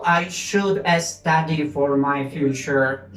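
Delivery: slow, careful English example; slow model sentence. Shown as a demonstration. Teacher modeling the future example slowly. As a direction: say it slowly for the class.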